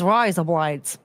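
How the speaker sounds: slightly low Aussie "rise up lights"; mock Australian accent. Shown as a demonstration. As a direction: show the one Aussie phrase you know. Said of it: "sounds like razor blades in Australian".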